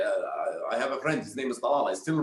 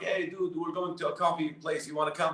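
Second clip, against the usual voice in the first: lightly voiced pal, a bit higher; inviting buddy; 4 semitones higher, 4 dB quieter than usual. Guys at the office inviting him for coffee, casually eager.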